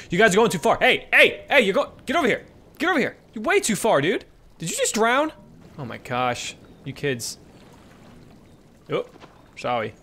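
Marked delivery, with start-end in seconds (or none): 0.1-5.3 calling out. Real, not acted. Mother calling her cubs back from the water, loud and high. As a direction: shout them back like a worried parent.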